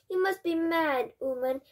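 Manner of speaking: high, loud burst of outrage; outraged cry. A narrator's reading. Father accuses the grandmother, crying out in outrage. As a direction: cry out in disbelief at her. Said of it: "cried Mister Jenkins".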